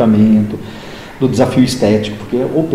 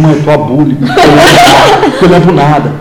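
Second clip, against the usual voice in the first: retold confession; 4 dB louder than usual. Retells confession to mother, laughing.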